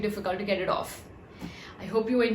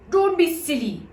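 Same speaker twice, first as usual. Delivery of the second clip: high, loud dismissal; scoffing; 7 semitones higher, 5 dB louder than usual. Acted. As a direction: brush it off. Bobs scoffs.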